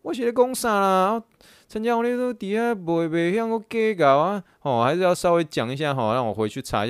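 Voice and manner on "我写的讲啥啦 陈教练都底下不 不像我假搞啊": groaning at his own mistake; incredulous. Retold or imitated. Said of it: "挂完电话之后就觉得说".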